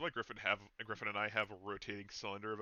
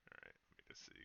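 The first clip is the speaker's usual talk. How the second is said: muttering under breath; 18 dB quieter, much faster than usual. Real, not acted. Muttering while browsing.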